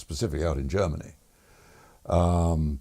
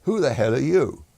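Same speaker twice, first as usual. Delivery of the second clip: loud, higher, rude bark of a question; rude demand; 7 semitones higher, 7 dB louder than usual. Retold or imitated. Station commander rudely challenges the pilot, loud and high. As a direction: snap at the stranger like an affronted commander. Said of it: "very rudely said".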